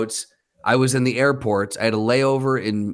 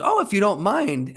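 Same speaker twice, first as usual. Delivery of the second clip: higher-pitched imitation of an accepting woman; polite older woman; 8 semitones higher than usual. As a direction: mimic a coy, higher acceptance. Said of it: "the woman goes".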